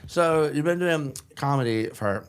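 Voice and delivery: mock drunk, trying to hold it together; drunk act. Drunk journalist struggling to interview a comedian, mock drunk. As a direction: drag it out like a drunk keeping composure. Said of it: "that very drunk".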